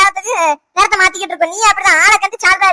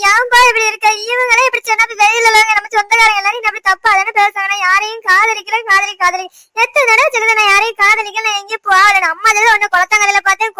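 tearful pleading. Acted. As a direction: beg tearfully to be believed. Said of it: "எதுக்கு அழுதுகிட்டு இருக்க". (அழுதபடி இழுத்துப் புலம்பிக் கெஞ்சல்)

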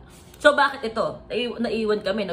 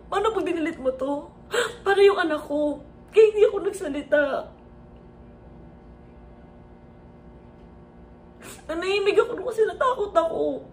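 crying. Real, not acted. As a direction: fight back sobs as you confess. Recounting fear, crying.

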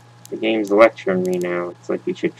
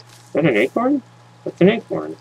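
high, excited discovery of an acorn; surprised; 9 semitones higher than usual. Real, not acted. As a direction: squeal it out in delight. Spots an acorn.

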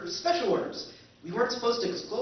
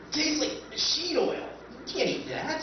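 laughing in disgust; 6 semitones higher than usual. Acted. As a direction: laugh at how awful it tastes. Grimacing taste of drone food.

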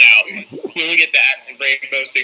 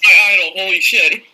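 excited; 5 semitones higher, 5 dB louder than usual. Real, not acted. Fan sees his idol appear.

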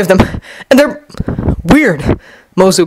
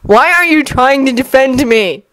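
higher, drawn-out question; demanding; 6 semitones higher, slower than usual. A narrator's reading. Kankuro questions his sister, high and demanding. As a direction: challenge with exasperation. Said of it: "Kankuro demanded of his sister".

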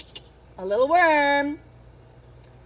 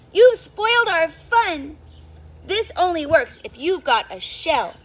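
cross complaint. Acted. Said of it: "they cried".

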